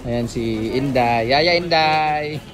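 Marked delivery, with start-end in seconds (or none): 1.3-2.4 slow, loud drawn-out call. Real, not acted. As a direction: call out her name warmly. Greeting arriving nanny by name.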